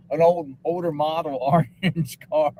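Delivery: slow mock police bulletin breaking into a laugh; laughing mock announcement. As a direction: draw it out, then crack up.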